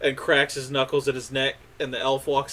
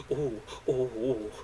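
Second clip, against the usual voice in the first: fussing clerics; 6 dB quieter, slower than usual. Acted. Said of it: "they run in and they go".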